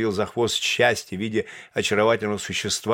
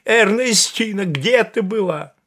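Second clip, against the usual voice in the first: slow, high, loud calling; drawn-out high call of her name and question; 11 semitones higher, 6 dB louder, slower than usual. A narrator's reading. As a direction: keep calling her as he runs up. Calling her through the house.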